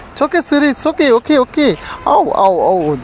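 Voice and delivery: soothing a pet in a high sing-song voice. Real, not acted. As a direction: coo it like calming a nervous dog. Soothing the pets on the terrace.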